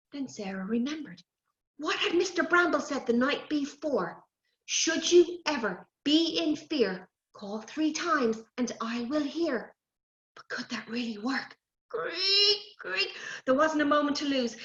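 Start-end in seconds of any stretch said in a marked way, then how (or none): 4.6-9.7 slow chanted rhyme; slow sing-song charm; magic rhyme. Acted. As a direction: recite it like a spell.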